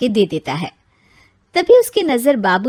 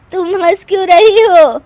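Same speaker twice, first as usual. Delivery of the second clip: offended widow; 10 semitones higher, 9 dB louder than usual. Acted.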